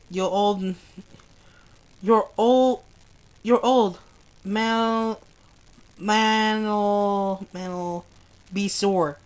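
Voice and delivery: tender pleading. Acted. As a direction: hold him back gently, barely above a murmur. Karen pleading softly with Joe.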